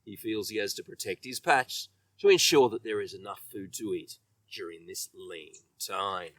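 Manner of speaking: ordinary delivery, nothing marked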